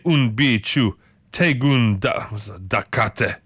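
slow, stumbling attempt at Dutch; shaky Dutch accent. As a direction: feel your way through a Dutch accent. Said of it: "get better at these accents".

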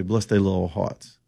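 put-on slow, soft Southern grandmother accent. Host quoting his grandmother in a Southern accent. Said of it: "As my grandmother would say".

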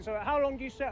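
talking with mouth full. Real, not acted. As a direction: speak through a mouthful of steak. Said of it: "I'm talking my mouth full now".

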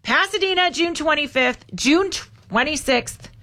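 choppy robot-like delivery, slowing; clipped robotic, word by word; staccato robotic voice. Pretend. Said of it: "Did you want me to do my staccato robotic voice?".

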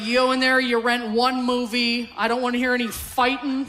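mild mock dad yell; imitated screaming dad. Dad warning kids in the van before the video store, mock scolding. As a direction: lay down the law like a hammed-up annoyed dad. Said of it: "He'd just be screaming into the rearview mirror".

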